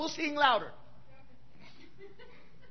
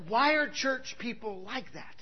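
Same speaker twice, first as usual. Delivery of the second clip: exasperated question; 2 semitones lower, 6 dB quieter, slower than usual. Retold or imitated.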